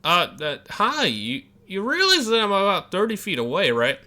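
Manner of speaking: hollering across a busy road; calling across traffic. Acted. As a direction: call out to a man far off. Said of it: "you call out across traffic".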